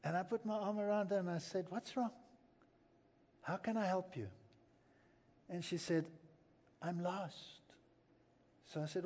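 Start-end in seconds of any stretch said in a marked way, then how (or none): 1.7-4.3 quiet reassuring question; gentle, softer comfort. Retold or imitated. Comforting a crying old lady. 6.8-7.6 a hint of a frail old woman; quietly, as the lost old lady; softly voiced old lady. Old lady's retold words.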